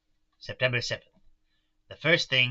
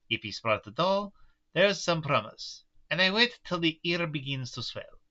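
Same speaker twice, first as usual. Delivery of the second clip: put-on light German-Russian mixed accent; old Dutch professor, lightly accented; Van Helsing accent; 2 semitones higher than usual. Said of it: "the accent I picked for Van Helsing".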